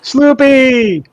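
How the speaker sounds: high, loud call of a name. Real, not acted. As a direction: shout a happy hello. Greeting a newcomer in chat.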